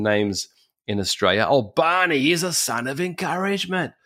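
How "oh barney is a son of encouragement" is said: higher put-on voice, lightly admiring; acted admiration. Australians praising old Barney by nickname, higher admiring voice. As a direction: praise him in a raised, put-on voice.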